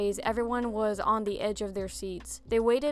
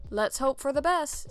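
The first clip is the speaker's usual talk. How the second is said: slightly raised, hopeful doctor's read of "Let's hope for the best"; doctor's line; 4 semitones higher than usual. Acted. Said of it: "said the doctor".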